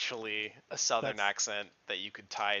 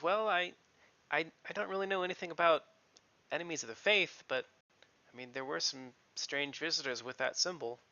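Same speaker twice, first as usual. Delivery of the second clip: hesitant young woman, lightly voiced; nervous stablehand woman; 2 semitones higher than usual. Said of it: "she goes".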